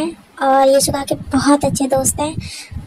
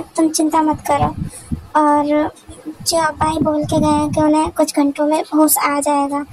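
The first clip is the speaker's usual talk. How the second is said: ordinary delivery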